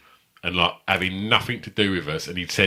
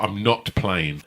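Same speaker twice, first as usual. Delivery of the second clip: sulky refusal; much slower than usual. Retold or imitated. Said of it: "He's like".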